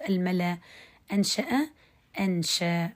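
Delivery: أنشأ ending on a long a with no glottal stop; hamza changed to alif. Shown as a demonstration. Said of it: "بهذا الشكل".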